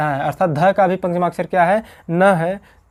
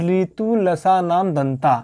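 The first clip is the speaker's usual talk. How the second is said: slow sutra recitation; slower than usual. Shown as a demonstration. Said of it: "teacher recites sutra".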